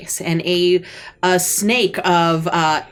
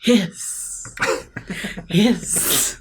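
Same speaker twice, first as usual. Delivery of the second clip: spoken hiss. Acted. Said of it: "Yeah, that".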